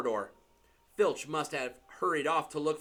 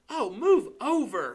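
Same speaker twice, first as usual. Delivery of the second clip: higher, louder snarl; 8 semitones higher, 7 dB louder than usual. Acted. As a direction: shove the words at him impatiently. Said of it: "Hermione snarled".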